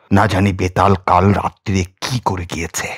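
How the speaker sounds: ordinary delivery, nothing marked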